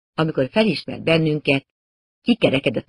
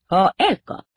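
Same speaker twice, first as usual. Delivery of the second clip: ringing voice; 5 semitones higher, slower than usual. A narrator's reading. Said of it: "mondta egy csengő hang".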